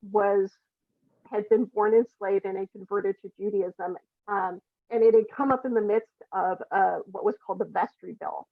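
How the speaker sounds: cutting in and out; breaking up over Bluetooth; garbled voice. Real, not acted. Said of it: "Apparently my voice is garbled".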